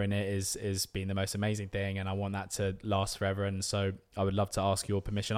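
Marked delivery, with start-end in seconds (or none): none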